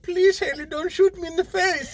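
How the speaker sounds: put-on high-pitched pleading in a poor Asian accent; squeaky-high mock Asian accent plea; bad Asian accent. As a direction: beg in a badly faked Asian accent. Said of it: "I don't have good Asian accents".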